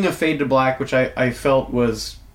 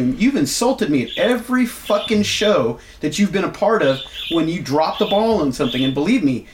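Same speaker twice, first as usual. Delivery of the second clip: mildly heated retold tirade, pitch jumping up on key phrases; retold going off; 3 semitones higher than usual. Retelling how they chewed out a colleague, going off. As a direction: lay into him, without shouting. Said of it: "And I'm just going off".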